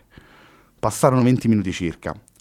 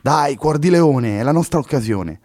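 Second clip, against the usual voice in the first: slow, high, louder mock-heroic coaxing; ironic teasing; 7 semitones higher, 5 dB louder than usual. Luna teases frightened Henry, slow and ironic. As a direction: tease him into courage. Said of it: "con un pizzico della sua intramontabile ironia".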